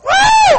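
loud high joyful whoop; preacher whooping with delight at a bargain. Real, not acted. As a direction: let out a big celebratory woo. Whoops over the truck deal.

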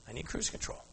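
I need cruise control said soft and hushed, rising at the end; hushed repeat to the congregation; soft echo. Shown as a demonstration. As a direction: drop to a near-whisper and let it lift. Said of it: "repeats the line, much softer".

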